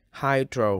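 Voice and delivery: "hydro" with HY stressed; first-syllable stress. Shown as a demonstration. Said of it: "các bạn nhấn vào vần đầu tiên".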